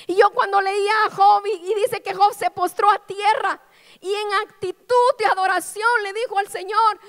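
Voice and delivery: fervent sermon climax; impassioned preaching. Acted. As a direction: press the question on the congregation.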